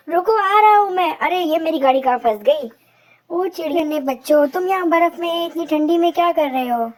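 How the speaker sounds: ज़ोरदार, ऊँची सेंटा की पुकार; गाड़ी फँसी तो ज़ोर से बोलता Santa; Santa Claus. Acted. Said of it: "अरे सेंटा बोला". (बच्चों से बात करता सेंटा, ज़ोरदार आवाज़)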